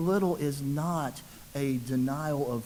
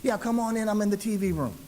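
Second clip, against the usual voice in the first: pitched-up mock call to another room; 6 semitones higher, faster than usual. Homeowner to nephew arriving at the back door, calling out. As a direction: call the visitor in, higher voice.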